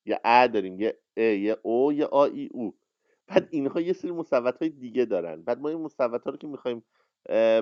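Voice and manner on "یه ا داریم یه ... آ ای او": naming each vowel clearly: ا، او، آ، ای; Persian vowels demo. Shown as a demonstration.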